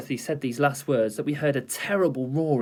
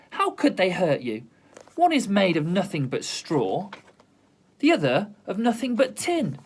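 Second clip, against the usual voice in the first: raised, indignant telling-off; girl lecturing a cowardly lion; scolding; 4 semitones higher than usual. Acted. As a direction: give the bully a piece of your mind.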